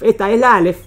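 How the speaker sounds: normal talking voice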